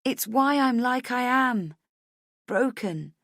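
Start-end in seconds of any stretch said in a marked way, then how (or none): 0.0-1.7 high, loud, insistent; impassioned plea. A narrator's reading. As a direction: plead urgently to be trusted. Pleading to be believed.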